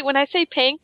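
"pink" said as "pank"; accented pink. Real, not acted. Asking if it sounds strange, "pink" pronounced "pank". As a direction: open the vowel of "pink" toward bank. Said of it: "sounds like you're saying pank".

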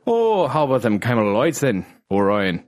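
Irish lilt with OY vowels in "Lights"; attempted Irish accent. Shown as a demonstration. Retrying cigarette line for co-host, mock Irish accent. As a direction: push the Irish vowels harder.

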